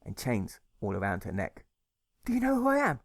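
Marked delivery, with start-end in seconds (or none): 2.2-3.0 high, teasing woman's voice; playful receptionist. A narrator's reading. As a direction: ask it with a playful jiggle. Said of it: "she asks with a jiggle".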